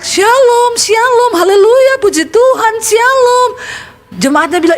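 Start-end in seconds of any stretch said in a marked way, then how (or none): 0.0-3.5 parrot squawking. Acted. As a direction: screech it out like a trained parrot. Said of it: "Burung beoknya teriak". (suara burung beo melengking keras)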